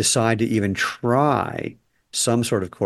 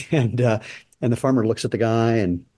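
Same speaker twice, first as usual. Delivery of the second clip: ordinary talk, nothing marked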